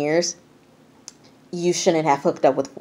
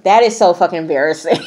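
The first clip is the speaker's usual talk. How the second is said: quick line breaking into high laughter; real laughter; 5 semitones higher, faster than usual. Real, not acted. Host reacting to the embarrassing painting, bursting out laughing. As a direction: crack up as the sentence ends.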